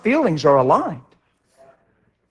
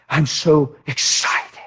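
slow, drawn-out; 3 semitones lower, much slower than usual. Real, not acted. Deliberate, drawn-out remark in testimony.

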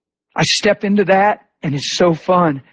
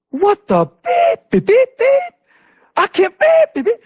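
very high squeaky censor beeps; bleeped cursing; 3 dB louder, slower than usual. Retold or imitated. Healed man freaking out on video, bleeped cursing. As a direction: imitate a censored outburst with piercing beeps. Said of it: "they had to put so many bleeps in it".

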